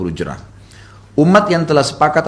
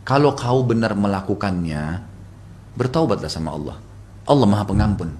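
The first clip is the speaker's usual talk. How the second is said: gentle, courteous; 3 semitones lower, 4 dB quieter than usual. Retold or imitated. Husband counselling Aisyah about rumours, gentle and courteous. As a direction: counsel a wife kindly, voice kept low. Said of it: "dengan suara baik, santun".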